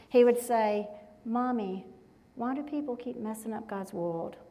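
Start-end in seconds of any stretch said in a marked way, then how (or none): 1.2-4.4 lightly voiced small child, softer; sweet little-boy voice. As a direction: gently imitate a little son asking his mother. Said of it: "in his sweet little voice".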